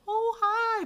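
high-pitched polite greeting, not shouted; putting-on nice. Retold or imitated. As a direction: switch to a sweet high hello. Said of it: "I have to be nice".

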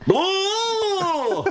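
high boo breaking into laughter; laughing boo. Pretend. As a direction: boo while cracking up. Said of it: "here's him disagreeing".

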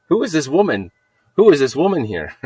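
high, loud astonished question; retold amazement. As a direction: marvel loudly at a stranger. Retelling amazement at the woman.

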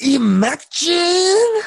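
high, loud, slow drawn-out cry; stretched exclaim. Pretend. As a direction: belt the word out dramatically. Echoing the exclaim louder.

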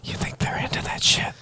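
teasing hushed voice; whispering. Acted. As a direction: whisper it slyly. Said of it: "Stop whispering".

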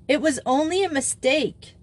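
high-pitched, half-amused excuse; reluctantly amused. A narrator's reading. Grisel excusing her blunder, reluctantly amused. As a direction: concede the joke unwillingly. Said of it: "with an unwilling laugh".

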